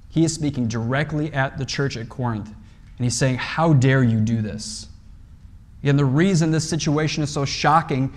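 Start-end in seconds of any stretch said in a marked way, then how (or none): 3.4-4.9 slow, firm voicing of Paul, stress on How; assertive rebuke. Paul speaking directly at the church at Corinth, slow assertive rebuke. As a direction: confront them slowly and firmly. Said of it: "a rather loud and assertive way".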